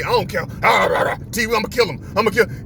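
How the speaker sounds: dog's threats mixed with barks; barking dog talk. Retold or imitated. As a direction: voice an angry dog that talks as it barks. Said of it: "That's how Diesel barking".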